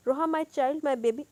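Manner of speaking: put-on a slow, coaxing mother soothing her child. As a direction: sweet-talk her like a baby. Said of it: "زوہا نے اسے پچکارا". (ماں کا بیٹی کو پچکارنے والا لہجہ)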